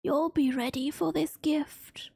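breathy near-whisper; lightly voiced frail grandpa, whispered; dying grandpa. Reading dying grandpa's words.

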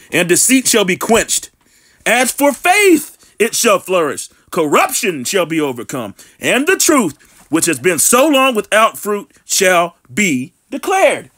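slow, deliberate Bible reading; slow preacher's scripture read. Acted. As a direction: read the verse out slowly, weighing each phrase. Reads scripture aloud.

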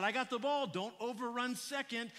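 loud, high call across the field. Retold or imitated. Father calling to his son running the bases, loud. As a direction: shout the warning to a running kid. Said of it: "I called out".

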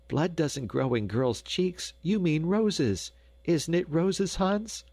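put-on high, slow, girlish voice; playful young Gretel. A narrator's reading. Gretel appealing to Hans, high and playful. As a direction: draw it out high and teasing. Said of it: "laughed Gretel".

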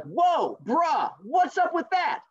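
high, slow jock taunt; cocky teen rabbit. Acted. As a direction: act the swaggering bully rabbit. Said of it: "the rabbit was like".

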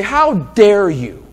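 indignant retort, a touch hammed-up; mild pretend indignation; mock outrage. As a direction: play the offended woman lightly. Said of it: "She doesn't get up and say".

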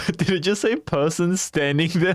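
incredulous, laughing question; laughing in disbelief. Real, not acted. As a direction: ask it while cracking up. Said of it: "I can't breathe".

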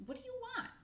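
very high squirrel shout; high shouted demand. Acted. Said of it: "someone shouted".

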